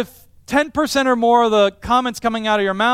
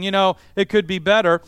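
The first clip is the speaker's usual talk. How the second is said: grumbling complaint. Shown as a demonstration. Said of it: "comparing it to all the other cars".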